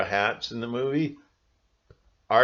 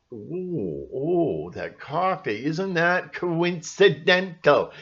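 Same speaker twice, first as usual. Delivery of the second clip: mock naive sheep; 6 semitones higher, slower than usual. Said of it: "that's what the sheep love".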